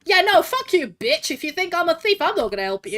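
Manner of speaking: loud, indignant retort; offended, punchy comeback; indignant outburst. Real, not acted. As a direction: snap back at being called a thief. Insulted as thief by game character.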